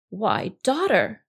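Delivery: lightly voiced, slow concerned dad; concerned crocodile father. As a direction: ask slowly, as a puzzled father. Crocodile father addresses crying daughter.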